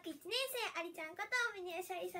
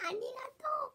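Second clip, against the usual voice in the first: a little whispered thank-you; 5 semitones higher, much faster than usual. Real, not acted. Whispering thanks to a viewer in the chat.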